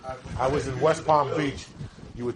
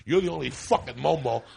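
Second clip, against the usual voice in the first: ordinary delivery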